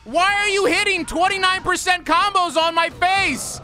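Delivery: mock-wounded pleading. Real, not acted. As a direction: beg her like she wronged you.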